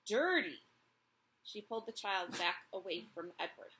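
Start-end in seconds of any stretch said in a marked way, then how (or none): 0.1-0.7 loud disgusted dirty; disgusted mother. Acted. Mother warning her child off the rabbit, disgusted. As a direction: spit it out in disgust. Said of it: "said the mother".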